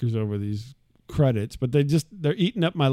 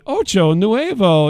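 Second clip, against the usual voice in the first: slow, deliberate mock Spanish accent, a bit louder; 5 semitones higher, 5 dB louder, slower than usual. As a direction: sound it out in Spanish to the machine. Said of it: "I'm going".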